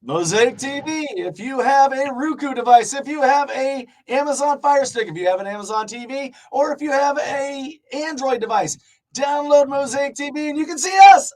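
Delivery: announcer plug; promo read. Acted. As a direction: sell it to the audience. Plugs the streaming channel.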